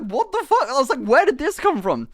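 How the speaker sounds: high, shocked what the fuck; baffled and indignant; outraged disbelief. Retold or imitated. Outraged reaction.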